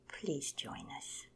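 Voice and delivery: slow, gentle coaxing. Acted. Hummingbird gently coaxing Condor to join the race, slow. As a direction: coax him along slowly. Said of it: "she coaxed".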